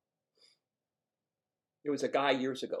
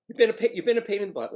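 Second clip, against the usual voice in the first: amused mother; 7 semitones higher, 9 dB louder, faster than usual. Retold or imitated. Voices mother's amused reply.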